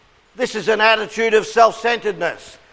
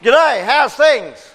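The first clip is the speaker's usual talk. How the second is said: called-out cue; 4 semitones higher, slower than usual. Shown as a demonstration. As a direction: call the cue out to the room.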